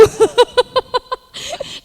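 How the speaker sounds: bright burst of laughter, high. Real, not acted. Telling the church she didn't like him, high laugh. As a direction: laugh at your own blunt answer.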